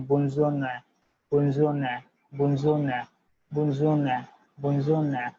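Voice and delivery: bonjour said as "bon-zhoor", modelled for students; French bonjour drill. Shown as a demonstration. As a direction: repeat bonjour like a teacher. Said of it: "will be pronunciated as".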